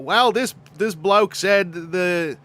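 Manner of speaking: lightly put-on Australian accent; slow, halting Australian bloke voice; mock Australian film director, mildly hammed up; George Miller. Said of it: "George Miller is constantly in a position".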